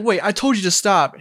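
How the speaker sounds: mock Karen. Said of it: "so she's like".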